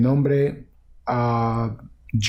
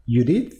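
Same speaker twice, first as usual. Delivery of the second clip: «Judith» con subida final, preguntando; nombre en tono de pregunta. Shown as a demonstration. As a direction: di «Judith» como si no estuvieras seguro. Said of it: "digo tu nombre en tono de pregunta". («Judith» interrogativo, subiendo al final)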